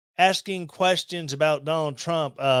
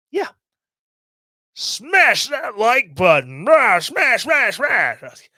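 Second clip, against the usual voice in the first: hammed-up hype shout, high and loud; mock YouTuber yell; 8 semitones higher, 5 dB louder, slower than usual. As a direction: bellow it like an over-the-top YouTuber. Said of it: "No, dude, don't yell at me".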